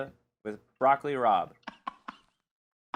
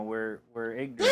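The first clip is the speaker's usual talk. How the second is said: laughing self-mockery; 3 semitones lower than usual. Real, not acted. Mock self-insult, laughing.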